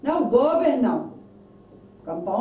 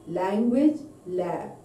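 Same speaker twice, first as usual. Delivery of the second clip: language rising, lab falling; stress on LANGUAGE; 3 semitones lower than usual. Shown as a demonstration. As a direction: lift language, let lab drop. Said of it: "stress is on first word".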